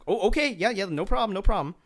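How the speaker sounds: a panicked fan scrambling to obey; flustered nervous agreement. Retold or imitated. Starstruck fan caught out by the actor, flustered and eager to please.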